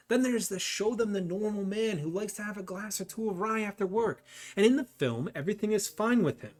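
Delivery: put-on a mobster's Irish accent that keeps slipping into Boston; a vague, drifting Irish mobster accent; muddled Boston-Irish accent. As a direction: tough Irish-Boston gangster pitching a deal, accent wandering. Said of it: "I don't know what accent you had there".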